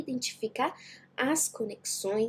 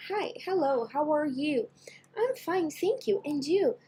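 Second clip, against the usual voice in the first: higher, stiff, sing-song classroom English; stiff textbook dialogue; 5 semitones higher than usual. Shown as a demonstration. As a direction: recite it like a rigid textbook drill. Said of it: "É aquela coisa engessada".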